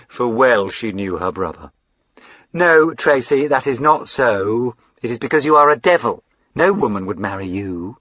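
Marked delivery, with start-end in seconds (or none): 2.5-8.0 higher, excitable fine lady; eager young lady Lavinia. Acted. Lavinia gushing to her brother, high and eager. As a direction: gush up high like a spoilt sister.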